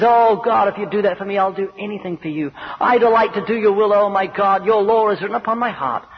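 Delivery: loud, impassioned vow to God; fervent prayer. Acted. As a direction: cry out in devotion, surging again after a dip. Convert praying at the cross.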